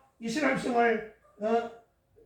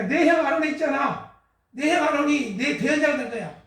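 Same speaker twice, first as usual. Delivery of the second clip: higher and louder, God settling the matter; firm divine reply; 4 semitones higher, 4 dB louder than usual. Acted. God firmly telling Moses that Aaron will speak. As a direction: declare it with authority.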